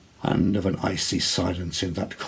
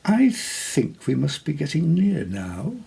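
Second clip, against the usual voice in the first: lady's voice; 6 semitones higher than usual. A narrator's reading. Lady speaks to Theodoric.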